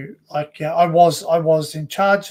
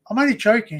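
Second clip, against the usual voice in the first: laughing it off; 6 semitones higher than usual. Retold or imitated. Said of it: "I went".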